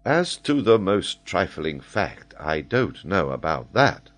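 dry, unhurried objection; doubtful echo. Acted. Major doubtfully echoes the boast.

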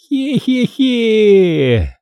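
медленное писклявое хе-хе-хе; мерзко растянутый смешок существа; противное хихиканье. A narrator's reading. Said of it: "Этот звук был таким же противным". (противный скрипучий смех Груля)

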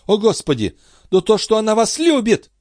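high, exasperated cry; exasperated outburst. A narrator's reading. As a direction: burst out at his slowness. Queen bursts out at the count. (высокий возглас отчаяния)

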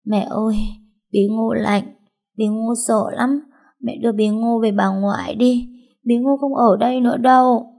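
put-on a feverish little girl begging her mother to take her home; little sick girl. A narrator's reading. Sick little girl begging mother to go to grandma's, frightened childlike pleading. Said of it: "Nó vừa thấy tôi đã lẩm bẩm bảo".

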